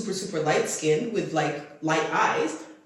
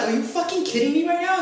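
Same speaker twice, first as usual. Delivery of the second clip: much higher and louder, incredulous and furious; retold outrage; 11 semitones higher, 4 dB louder than usual. Narrator to boyfriend, furious he won't leave: high loud outrage. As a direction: fire it back in disbelief. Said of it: "I was like".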